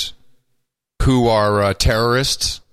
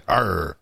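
pirate arr; 8 semitones lower, 5 dB quieter than usual. Pretend. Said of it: "Talk Like a Pirate Day".

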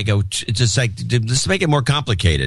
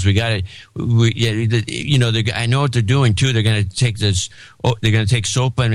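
lobbyist impression. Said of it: "channel a, a, one of these lobbyists".

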